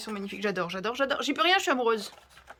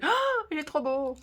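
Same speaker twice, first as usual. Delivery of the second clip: imitated gushing; 5 semitones higher, slower than usual. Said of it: "je fais".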